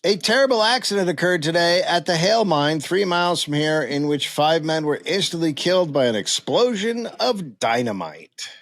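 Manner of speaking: measured news-report reading; old newspaper read-aloud. Acted. Reading out a mine accident report, formal.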